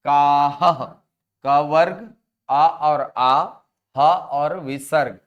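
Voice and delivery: हर हिस्सा ज़ोर से, अलग-अलग करके; रटवाने की तरह गिनाते हुए; emphatic recitation. Shown as a demonstration. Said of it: "तो पहला फॉर्मूला बन गया क्या?". (कक्षा को सूत्र रटवाते हुए ज़ोरदार पाठ)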